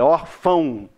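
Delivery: "órfão" com "ão" num som nasal só; som de ão junto. Shown as a demonstration. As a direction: diga "órfão" fechando em ão, sem ó no fim. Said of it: "termina em ão". ("órfão" com o ditongo ão bem junto)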